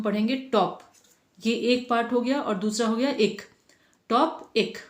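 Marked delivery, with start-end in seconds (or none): 1.5-4.8 टॉप and एक said apart with a pause; split into syllables. Shown as a demonstration. Teacher to kids, breaking a word into syllables. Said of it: "ये ह-, तरीका है तोड़ के पढ़ने का".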